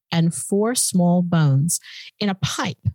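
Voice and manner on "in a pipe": dramatic whisper. Acted. Telling a cohost the grim discovery in a suspenseful whisper. Dramatic reveal in true crime.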